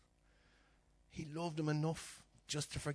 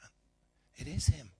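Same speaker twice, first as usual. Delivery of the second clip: slow, louder: it IS him; slow realisation; 3 semitones higher, 8 dB louder, slower than usual. Retold or imitated. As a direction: land "is" slow and firm. Father realising it's his son.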